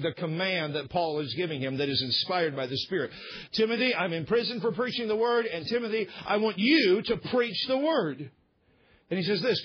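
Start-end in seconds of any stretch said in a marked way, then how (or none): 3.5-8.3 Paul's urgent charge to Timothy, pitched up; raised pitch, drawing out "preach the word"; emphatic charge. Acted. Imprisoned Paul charging Timothy to preach, emphatic. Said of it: "it's a very emphatic statement".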